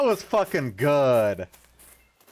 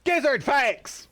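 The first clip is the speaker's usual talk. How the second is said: much higher cartoon squeak; high squeaky announcement; 12 semitones higher than usual. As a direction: squeak it out like a mascot.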